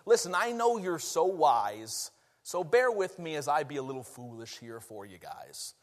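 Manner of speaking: mildly sarcastic mock deference. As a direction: act out Paul humbly mocking the know-it-alls. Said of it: "starts getting sarcastic with them".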